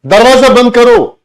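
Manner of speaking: loud, high-pitched command with a threat; high tone order. Shown as a demonstration. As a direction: bark the order, then challenge. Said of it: "फिर से ध्यान से समझना". (ऊँची tone में धमकी भरा आदेश)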